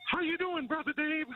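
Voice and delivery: squeaky, very high-pitched voice. Retelling how a morning show co-host greeted him: Jay impression. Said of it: "That's a nice impression".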